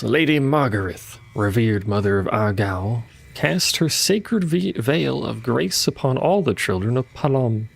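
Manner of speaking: solemn proclamation read aloud; formal lore reading. Acted. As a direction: read it like an ancient decree. Reads in-game lore text aloud.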